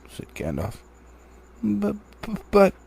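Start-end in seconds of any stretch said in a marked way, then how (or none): 1.6-2.7 high, stammering protest; flustered stammer. Acted. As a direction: sputter the buts in a panic.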